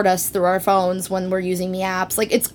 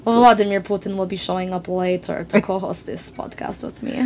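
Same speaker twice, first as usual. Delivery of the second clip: mock Russian-accented announcement. Host announcing a co-host in a playful Russian accent. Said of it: "That's a pretty good accent".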